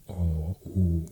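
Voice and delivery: O and U said as long closed vowels; closed vowel demo. Shown as a demonstration. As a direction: hold O, then U, as rounded vowel sounds. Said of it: "the closed".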